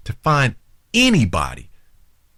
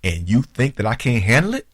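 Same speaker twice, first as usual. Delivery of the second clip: affronted, incredulous questioning; 2 semitones higher than usual. Retold or imitated. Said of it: "you made him feel like".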